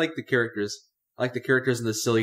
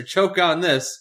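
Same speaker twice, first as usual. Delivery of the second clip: mock action one-liner; 6 semitones higher, 4 dB louder, much slower than usual. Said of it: "your character yells a one-liner like".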